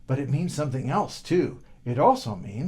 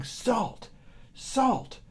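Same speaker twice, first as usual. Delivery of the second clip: concentrating hard; 8 semitones higher, much slower than usual. Acted. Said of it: "concentrating as hard as he could".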